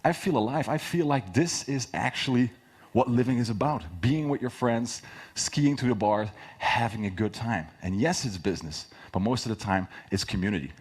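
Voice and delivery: animated, passionate pitch; excited pitch demo. Shown as a demonstration. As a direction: sell it with real passion. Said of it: "But I exaggerated for, for the talk".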